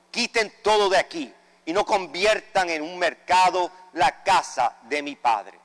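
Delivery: ordinary talk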